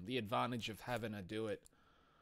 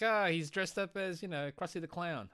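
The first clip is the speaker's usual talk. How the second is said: mock excited; 8 semitones higher than usual. Mock modder quote, high slow.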